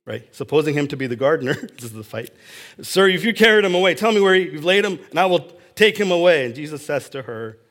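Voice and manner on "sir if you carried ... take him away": rushed, louder, higher plea; frantic pleading. Retold or imitated. Grieving Mary begs the gardener for the body, frantic. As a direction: beg the gardener in a panicked rush.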